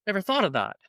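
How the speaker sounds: retold realisation. Traveller reacting to friend's explanation, pleasantly surprised. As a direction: act out a mild penny-drop moment. Retelling own sudden realisation.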